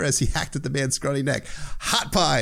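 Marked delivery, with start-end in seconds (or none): 1.8-2.4 war cry. Retold or imitated. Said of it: "a war cry".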